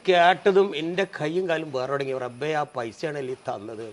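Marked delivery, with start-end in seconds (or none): 2.3-3.9 softer and slow, crushed realisation; stunned grief. Retold or imitated. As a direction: let it sink in, quiet and broken. Son realises mother's sacrifice.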